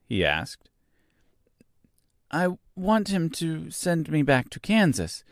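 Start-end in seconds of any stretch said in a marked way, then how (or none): 2.3-5.2 put-on high, unhurried girl's voice; young Dorothy. A narrator's reading. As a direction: answer simply in a high girl's voice.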